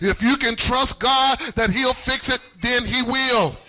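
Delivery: insistent, rhythmic preacher's refrain; fervent, emphatic sermon cadence; full-force preaching. Real, not acted. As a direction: hammer each repeated phrase to the congregation.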